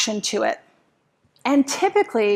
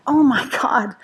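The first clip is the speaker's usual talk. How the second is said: whispered thought. Retold or imitated. Whispered panicked inner thought.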